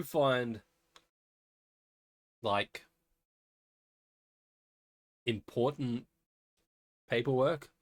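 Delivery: talking around an ice cube; ice in mouth. Real, not acted. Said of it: "put an ice cube in my mouth".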